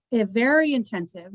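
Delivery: VERY intensive, with a pitch swell on very; emphatic stress. Real, not acted. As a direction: lean hard on "very intensive". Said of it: "I'm gonna emphasize the word intensive".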